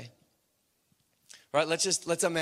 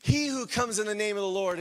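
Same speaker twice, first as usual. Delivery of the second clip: acting out joyful praise, pitched up; elated crowd cry; 4 semitones higher than usual. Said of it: "you are just elated".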